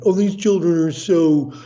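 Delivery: a hint of sneering older generation; mocking complaining adults. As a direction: mimic a dismissive adult with a mild sneer. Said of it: "adults love to say that".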